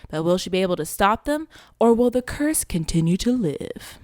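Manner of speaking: dramatic trailer read; lightly dramatic trailer voiceover; trailer narration. Acted. Reads synopsis like a trailer.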